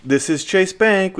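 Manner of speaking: a lightly imitated bank phone recording; automated recording voice. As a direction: read it out like a stilted phone menu. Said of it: "some automated recording".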